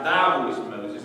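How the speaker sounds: emphasis on "Thy", "Moses" drops away; stress on thy. Shown as a demonstration. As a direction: lean on "Thy". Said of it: "He puts special emphasis on it there".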